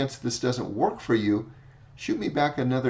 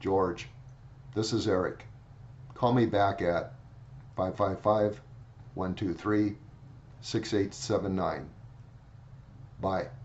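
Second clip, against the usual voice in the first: low, flat, level, droning monotone; 4 semitones lower, 5 dB quieter than usual. Retelling a voicemail left for a client, imitating George's monotone voicemail. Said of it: "I emulated his message".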